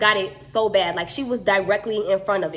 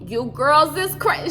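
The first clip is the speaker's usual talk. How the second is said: put-on Massachusetts accent; 5 semitones higher, 3 dB louder, slower than usual. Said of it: "she from Massachusetts".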